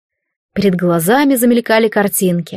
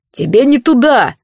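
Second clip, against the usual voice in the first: a louder snarl from an angry guard; snarled warning; 3 semitones higher, 3 dB louder than usual. Acted. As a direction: bark her away from her friend. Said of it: "вызверился на неё сердитый". (злобный окрик)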